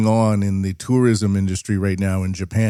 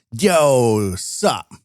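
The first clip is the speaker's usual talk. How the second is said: hip-hop guy. Retold or imitated. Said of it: "talks like a hip-hop guy".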